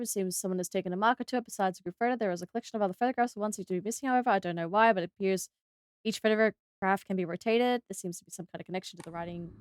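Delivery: reading to oneself. Real, not acted. Player reading journal clues to herself, soft hurried read-out. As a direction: skim the text aloud under your voice. Reads game journal text aloud.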